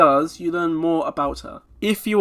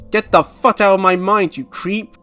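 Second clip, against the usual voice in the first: loud retort; mock angry snap; 4 semitones higher, 6 dB louder than usual. Sumeri to intruder in her mind, angry.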